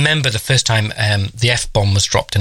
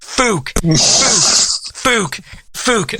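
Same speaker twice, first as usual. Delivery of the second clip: imitating child shouting; 9 semitones higher, much slower than usual. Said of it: "walked ten paces behind me shouting".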